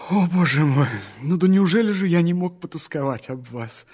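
громче, взволнованно и с напором; умолять, оправдываясь; горячая мольба. Acted. (громкая взволнованная мольба)

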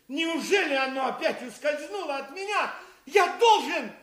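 frustrated villain's rant; seething over the lost prize; foiled villain. Acted. Villain loses Christian and the tinderbox. (раздосадованный злодей)

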